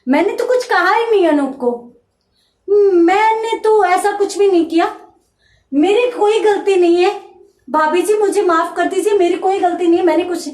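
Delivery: a guest cornered at gunpoint, panicky pleading; scared pleading. Retold or imitated. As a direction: beg for your life in a panic. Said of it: "तो वो डर जाता है".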